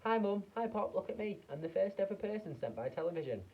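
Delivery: put-on high, loud mouse-like boy; tiny boy squeaking out of the TV set; tiny squeaky voice. A narrator's reading. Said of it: "a tiny voice no louder than the squeaking of a mouse".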